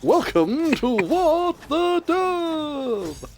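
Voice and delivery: booming slow announcer welcome; game show host. Acted. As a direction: stretch it out like a TV host. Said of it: "to sound like a game show host".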